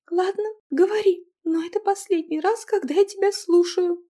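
put-on high, loud girl's curt reply; grudging girl. Girl grudgingly letting her husband speak. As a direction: give in coldly in a high young woman's voice.

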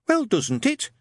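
a meek, polite recruit; timid young private. A narrator's reading.

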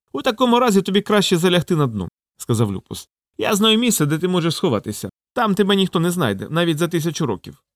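high-pitched wolf character voice; scheming wolf. Acted.

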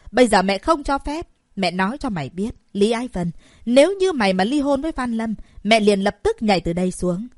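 loud threatening yell; angry shout. Acted. Mother threatening to jump from the window, shouting. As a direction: threaten her daughter at full volume. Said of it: "hét lớn".

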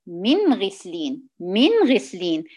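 "من غسلين" with the nun clipped short, no extra nasal hum; "من غسلين" recited slowly and evenly, no ghunnah; correct recitation. Shown as a demonstration. Teacher reciting "من غسلين" correctly for her students. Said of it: "لا".

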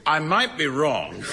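trying not to laugh; giggling through the words. Acted. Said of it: "I really must learn to say that with a straight face".

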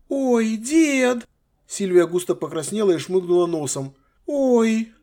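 high, sheepish cry; embarrassed girl. Acted. Granddaughter embarrassed before her grandfather, high sheepish cry. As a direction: squeak it out, caught red-handed.

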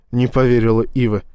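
plain reading voice

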